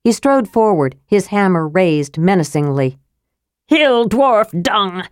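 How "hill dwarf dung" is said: slow, rasping creature snarl; snarled insult. A narrator's reading. Thewar dwarf cursing Flint, a slow snarl. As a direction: spit it out with contempt. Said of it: "snarled one of the Thewar".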